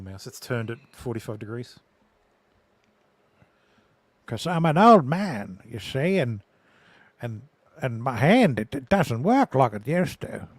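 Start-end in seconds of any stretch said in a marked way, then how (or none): 4.3-10.5 slow, lightly voiced old man. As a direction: play a creaky old man, slowly. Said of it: "I went into the old man voice".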